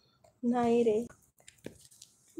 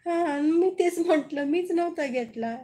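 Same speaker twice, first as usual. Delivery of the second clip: excited; 4 semitones higher, 6 dB louder than usual. Real, not acted. Defends after being teased.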